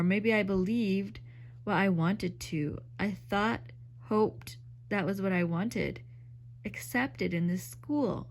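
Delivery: slow, lightly bitter reading. Acted. Madge to Lucy, realizing the joke, slow and bitter. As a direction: let it out slowly, a touch bitter. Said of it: "speak slowly and bitterly".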